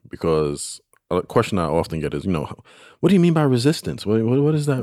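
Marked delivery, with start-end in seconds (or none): 3.0-4.8 puzzled questioner. Retold or imitated. Quoting a listener's puzzled question.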